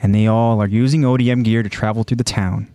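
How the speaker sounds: measured, dramatic recap narration; story narration. A narrator's reading. Host recaps a violent anime scene for listeners, dramatic narration. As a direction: narrate it slowly in phrases with suspenseful pauses.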